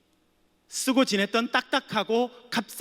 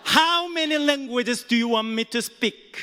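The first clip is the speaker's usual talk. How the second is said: slow, deliberate proud English question; confident emphatic repeat; loud retort again; much slower than usual. Shown as a demonstration. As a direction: lean on each word, proud. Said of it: "다시 해볼까요?".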